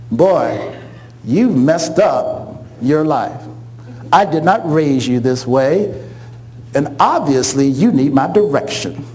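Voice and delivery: low, slow scolding mom; a hint of the stern mother laying down law; lightly voiced stern mother. Mother telling her grown son she did not raise him this way, low and slow.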